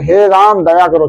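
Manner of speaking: slow, gentle plea to Ram; said with love. Shown as a demonstration. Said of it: "ये जब भी बोला जाता है प्यार से बोले". (प्यार से, धीरे से)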